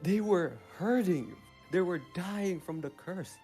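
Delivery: evil monologue. Acted. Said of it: "let me do my evil monologue".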